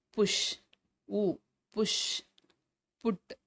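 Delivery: "புஷ்", "புட்" with a short "u"; உ sound demo. Shown as a demonstration. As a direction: model "புஷ்" and "புட்" singly, isolating short "u". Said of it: "இது எல்லாமே உ உச்சரிப்பு". ("புஷ்", "புட்" குறில் உ ஒலியுடன்)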